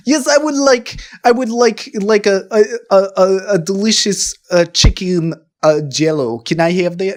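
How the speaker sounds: halting mock Russian accent; weird Russian accent. Customer ordering chicken Jell-O, in a weird put-on Russian accent. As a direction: fumble an order in a badly faked Russian accent. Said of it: "like, a weird Russian thing".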